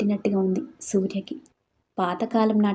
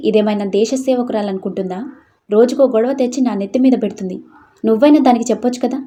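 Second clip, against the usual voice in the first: angry rant; 4 dB louder than usual. Acted. Father rants to wife.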